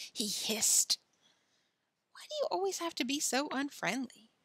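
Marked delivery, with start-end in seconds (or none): 2.1-4.3 put-on high, hurt little-girl question; plaintive reproach in a raised voice; reproachful. A narrator's reading. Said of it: "asked Pippi reproachfully".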